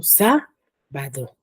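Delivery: "Sábado" drawn out slowly, SÁ held apart from "bado"; slow demonstration of "Sábado" with stress on SÁ; stressed first syllable. Shown as a demonstration. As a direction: lean on SÁ, pause, then drop "bado". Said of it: "sábado tiene tilde en la sa".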